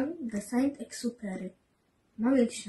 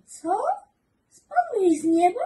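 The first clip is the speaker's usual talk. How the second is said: put-on high, loud childlike cry of surprise; little prince exclaiming in disbelief; surprised exclamation; 11 semitones higher, 7 dB louder than usual. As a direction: gasp it out amazed. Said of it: "Wtedy wykrzyknął".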